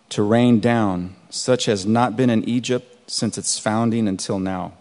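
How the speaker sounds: measured Bible reading, slowing on heavy hail; scripture reading. Acted. Pastor reading Exodus aloud to the congregation, measured and deliberate. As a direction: read the verses like a pastor to his flock.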